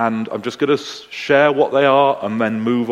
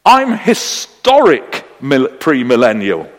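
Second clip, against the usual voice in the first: hammed-up happy announcement, settling at the end; 6 dB louder than usual. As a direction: declare it gladly, stretching the first words. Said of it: "happily said".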